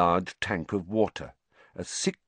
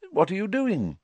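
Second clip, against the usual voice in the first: kindly; 12 semitones higher than usual. Acted. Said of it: "in a very different voice from Filch".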